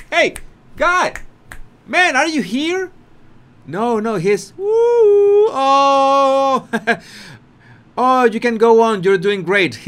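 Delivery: imitating a lost guest babbling; hammed-up awkward cheer; mock flustered.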